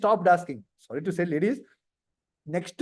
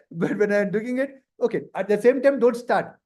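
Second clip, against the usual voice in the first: ordinary talk, nothing marked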